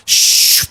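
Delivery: loud unvoiced shush; imitated door hiss. Streamer imitating the door opening mid-loot, loud hissing shush. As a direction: make the whoosh of a door sliding open. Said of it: "and I hear".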